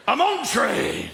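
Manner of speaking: lightly voiced Northern dad, slow; clipped Northern 'on train', drawn slow. Northern dad telling his son where he is, slow Northern. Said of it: "In the North, you like to get to the heart".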